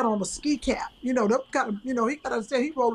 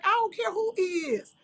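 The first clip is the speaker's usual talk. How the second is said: angry outburst; 9 semitones higher than usual. Retold or imitated. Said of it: "I literally went off".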